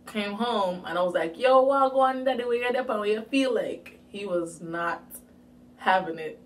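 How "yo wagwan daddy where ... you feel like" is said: loud, higher-pitched Patois greeting; Jamaican Patois. Retold or imitated. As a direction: call out to Dad in Jamaican Patois. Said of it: "speaking English versus Patois".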